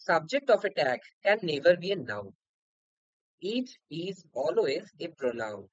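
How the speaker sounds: very slow, word by word; slow dictation. Shown as a demonstration. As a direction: read the rule aloud slowly for students. Teacher reads out rule one. (খুব ধীরে নিয়ম পড়ে শোনানো)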